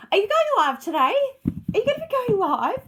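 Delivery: high, loud, excited mock nagging; eager viewers. Host imitating viewers asking if she's live, loud eager mock pestering. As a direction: mimic impatient fans pestering, bright and pushy. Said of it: "'Cause you're all like".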